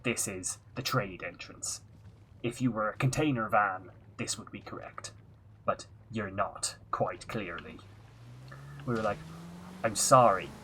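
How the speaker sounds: story told in a light put-on Irish accent. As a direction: chat about the trip in a mild Irish lilt. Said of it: "we're definitely going Irish".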